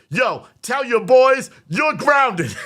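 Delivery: high, loud, slow, laughing through it; heated, laughing. Retold or imitated. Dad telling his gaming son he's grounded, laughing and heated. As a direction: lay down the punishment while cracking up. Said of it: "I was heated".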